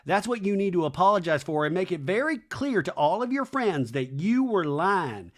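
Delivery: mock indignant friend laying down the law; lightly voiced confrontation. Acts out Brittany confronting Jesse.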